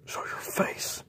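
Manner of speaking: hushed repeat of the challenge; whispered dare. Acted. J J repeats his dare to the beast in a whisper. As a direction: breathe the dare into the dark.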